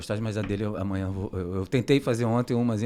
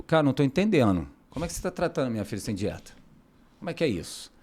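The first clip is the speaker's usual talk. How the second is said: imitated parent's puzzled protest, pitched up; mildly indignant; 4 semitones higher, faster than usual. Parent questioning the nutritionist about no diet, mildly indignant. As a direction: lightly act out an incredulous complaint. Voicing a disbelieving complaining parent.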